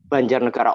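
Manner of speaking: "Banjarnegara" bervokal A terbuka, nada rendah; lafal ngapak. Shown as a demonstration. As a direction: ucapkan gaya ngapak, A tetap A pada "Banjarnegara". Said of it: "Orang situ bahasanya ngapak". ("Banjarnegara" logat ngapak)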